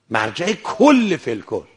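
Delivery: کل stretched and punched; stress on کل. Real, not acted. Preacher stressing to listeners how great the scholar was, emphatic. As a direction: lean long on کل.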